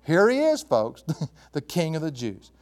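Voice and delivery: mock presentation with a chuckle midway. Preacher voices Pilate humiliating Jesus before the folks, mocking. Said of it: "very mocking, very humiliating thing".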